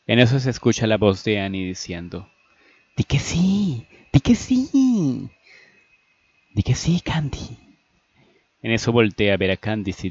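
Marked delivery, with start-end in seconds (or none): 3.0-7.6 high, drawn-out excited urging; high-pitched, stretched-out coaxing; eager pleading. Acted. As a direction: beg a friend to say yes. Annie urges Candice to accept.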